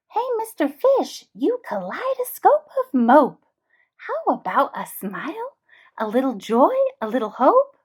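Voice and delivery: a sassy squid teasing him; cheeky squid. Acted. The impolite squid mocking the moping fish. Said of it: "she is slightly impolite".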